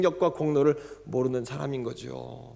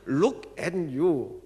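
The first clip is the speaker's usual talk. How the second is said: "look at you" drawn out very slowly; slowly spelled out; much slower than usual. Retold or imitated. Pastor explaining a phrase to a puzzled listener, very slow. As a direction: explain each word patiently. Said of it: "했더니".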